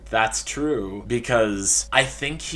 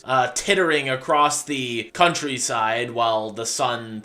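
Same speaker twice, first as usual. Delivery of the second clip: mock-grand speech; 2 semitones higher, 5 dB louder than usual. Telling listeners it can't all be sunshine, mock-grand.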